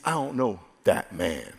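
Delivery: low, put-on gruff denial; cursing denial. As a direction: growl it out like a cornered man swearing. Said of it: "He says".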